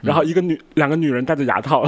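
lisping through braces, air leaking; talking with braces. Real, not acted. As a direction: speak with a retainer in, slightly slurred. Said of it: "我现在是戴着牙套，然后一直在漏风". (戴着牙套说话漏风)

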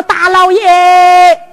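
drawn-out, humble plea to a magistrate; slow humble plea. Retold or imitated. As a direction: kneel and beg the official, slowly. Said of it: "我说：".

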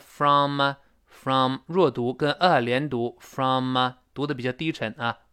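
low, unstressed "from" run into a; weak FROM. Shown as a demonstration. Teacher showing the weak form, FROM low and unstressed.

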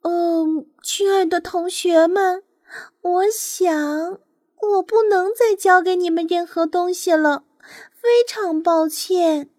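halting, regretful nightingale; sighing apology. Acted. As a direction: let them down gently with a sigh. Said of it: "他叹息着说".

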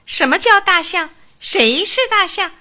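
high, loud indignant squeak; boastful mouse shouting back at his aunt; squeaking outburst. A narrator's reading. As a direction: squeal it out like a puffed-up little mouse. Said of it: "老鼠吱吱地叫了起来".

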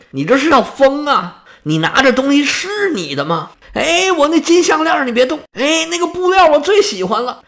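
high-pitched protest from an upset wife; alarmed scolding. A narrator's reading. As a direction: cry out to stop him, voice pitched high. Queen protests treasures being thrown.

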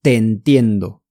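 "Te entiendo" with the two e's merged; linked sounds. Shown as a demonstration. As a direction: run "Te entiendo" together as one word. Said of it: "可以连读".

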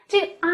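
啊 held high and steady, like a patient saying ah for the doctor; high level ah. Shown as a demonstration. Teacher showing first tone with the doctor's ah. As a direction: sustain 啊 flat at the top of the voice. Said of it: "就是阴平的".

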